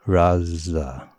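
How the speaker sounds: Raza said as "Raz-za", z held over both syllables; Raza with double z. Shown as a demonstration. Teaching the three-beat method on a name. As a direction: hold the z across the beat. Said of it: "we teach them to say Raz, Za".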